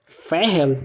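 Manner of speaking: "Ferrel" with a clear curled L at the end; rolled final L. Shown as a demonstration. Teacher giving an example word, rolled final L. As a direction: finish "Ferrel" on the tongue, not a U. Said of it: "o L vai enrolar no final".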